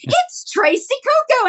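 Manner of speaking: imitating Marina's accent, lilting and high. Marina telling Jonathan who it is, in Marina's accent. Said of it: "you do her accent really well too".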